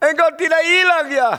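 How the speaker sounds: shocked delighted owner, high pitched; surprised owner. Retold or imitated. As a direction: squeal in disbelief at the returned dog. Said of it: "Dia kaget".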